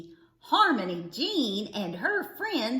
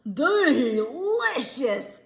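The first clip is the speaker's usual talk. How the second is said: gulped, mouth on fire; 2 semitones higher, 4 dB louder, much slower than usual. A narrator's reading. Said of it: "he gulped".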